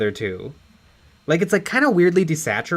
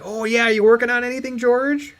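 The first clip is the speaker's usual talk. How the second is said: higher-pitched, chatty question; mock-eager fan checking in; Patton Oswalt; 7 semitones higher than usual. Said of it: "he's like".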